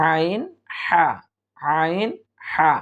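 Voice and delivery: "আইন" and "হা" formed in the middle of the throat; mid-throat articulation. Shown as a demonstration. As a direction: demonstrate "আইন", then "হা", each separately from the throat. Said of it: "হলকের মধ্য থেকে উচ্চারিত হবে". ("আইন", "হা" হলকের মধ্য থেকে উচ্চারণ)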